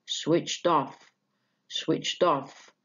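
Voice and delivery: switched off slowly, with one main stress on off; slow demo, one beat on off; single stress. Shown as a demonstration. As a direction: let off carry the phrase, falling at the end. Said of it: "one stress is enough".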